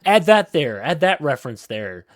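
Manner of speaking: lightly voiced exec giving orders; Hollywood exec. Imitating a Hollywood exec ordering references added, lightly bossy. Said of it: "Some Hollywood exec coming in and saying".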